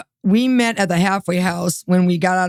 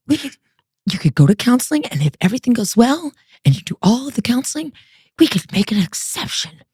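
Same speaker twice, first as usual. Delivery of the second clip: hesitant, halting imitation of softening; officer suddenly relenting; 3 semitones higher than usual. Probation officer switching to allow marriage, halting imitated concession. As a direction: relent bit by bit, with pauses. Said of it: "the Holy Spirit grabs her and she goes".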